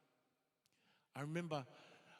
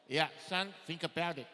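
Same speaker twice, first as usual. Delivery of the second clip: loud, lightly voiced stern parent; 8 dB louder than usual.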